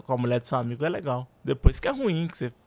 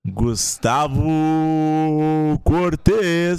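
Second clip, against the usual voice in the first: booming stage introduction; 5 dB louder, slower than usual. Pretend. Announcing guest on podcast.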